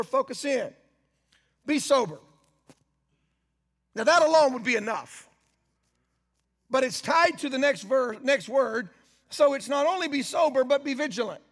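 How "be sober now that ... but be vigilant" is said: slow, weighted reading, pausing at each comma; slower, with emphasis. Shown as a demonstration. Preacher rereads the verse slowly so the congregation grabs it. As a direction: let each phrase land so they grab it. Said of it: "I'm gonna read it in such a way that I want you to grab it a little bit slower".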